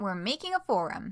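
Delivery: the word "making" given the stress. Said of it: "Emphasis on making".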